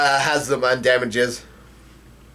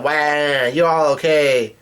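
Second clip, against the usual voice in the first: slow, stretched-out mild yell; lightly imitated tearful shout, long vowels; retold yell; slower than usual. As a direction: draw it out like a mock call of relief. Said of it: "he yells out".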